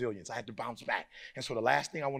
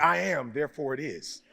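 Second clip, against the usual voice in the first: mock limp reading; 3 dB louder than usual. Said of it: "I don't got enough attitude".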